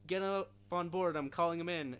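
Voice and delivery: annoying CIA guy voice. Retold or imitated. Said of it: "the C I A guy has the most annoying fucking voice ever".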